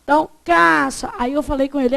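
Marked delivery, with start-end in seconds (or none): 0.4-1.1 "caixa" said as "caxa", I left out; reduced vowel. Shown as a demonstration. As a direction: stretch "caixa" slightly, without its I. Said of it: "Esse I some".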